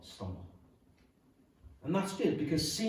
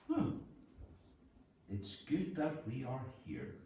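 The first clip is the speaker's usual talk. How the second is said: groggy Peter; 8 dB quieter than usual. Retold or imitated. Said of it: "be a wee bit groggy".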